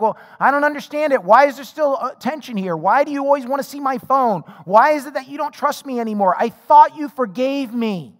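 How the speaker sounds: slowing on the last line to drive it home; exasperated spouse. Retold or imitated. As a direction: press them on why they're still not trusted. Frustrated spouse confronting partner.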